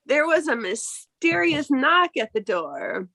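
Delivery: slow storyteller setting a scene; game master's slow recap; story recap narration. Acted. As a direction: draw out the tale, unhurried.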